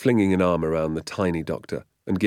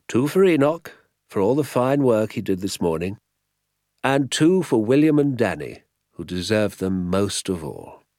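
higher, emphatic doctor's voice; delighted village doctor; 5 semitones higher, 6 dB louder than usual. A narrator's reading. Doctor sharing pheasants among friends, delighted. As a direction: hand out the gifts with delight.

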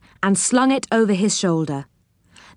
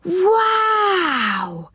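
high astonished cry of wow; 12 semitones higher than usual. Acted. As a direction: gasp it out in awe. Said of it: "stared at it in great astonishment".

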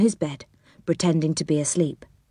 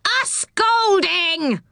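mild pixie roar; 12 semitones higher, much slower than usual. Acted. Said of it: "roared the angry pixie".

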